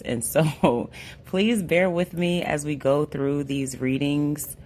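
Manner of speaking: hoarse, with a small laugh. Real, not acted. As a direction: push words through a lost voice. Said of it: "I had lost my voice".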